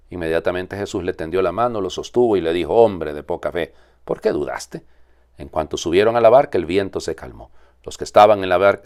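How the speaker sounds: measured liturgical reading voice; Gospel reading. Acted. Priest reading the Gospel at Mass, solemn proclamation.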